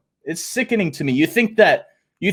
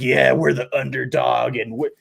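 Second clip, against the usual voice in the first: mock whining; 6 semitones lower than usual.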